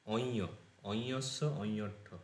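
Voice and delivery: অঞস্য অঞট্ঠ said slowly and carefully; slow recitation. Shown as a demonstration. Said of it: "এটা হচ্ছে". (ধীরে উচ্চারণ করে পড়া)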